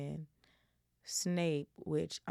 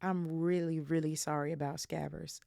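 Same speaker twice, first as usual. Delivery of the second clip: attempted British accent. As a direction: slip into a light British accent, then drop it. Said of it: "try to do my English, British, whatever accent".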